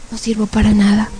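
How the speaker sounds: understated resigned repetition; dejected echo. Retold or imitated. Woman agreeing with the demons, dejected. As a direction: accept the insult, defeated. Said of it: "empiezo a escuchar mi voz".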